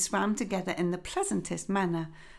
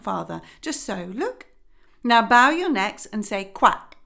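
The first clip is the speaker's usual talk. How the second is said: lightly voiced instructing mother duck; a hint of a proud teacher hen; mildly bossy duck.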